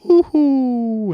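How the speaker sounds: high loud mock Mario whoop; Mario hoo-hoo. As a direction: squeal it like the jumping plumber. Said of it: "what's the other one?".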